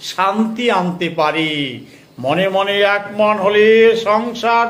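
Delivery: slow, declamatory verse with drawn-out line endings; poetry recitation. Acted. Poet reciting own verse on a woman's life, declamatory recitation. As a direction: recite in measured phrases, stretching the final vowels.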